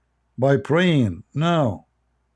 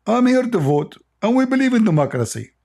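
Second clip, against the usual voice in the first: mock Arab American voter; 9 semitones higher than usual. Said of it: "I will tell them I'm an Arab American".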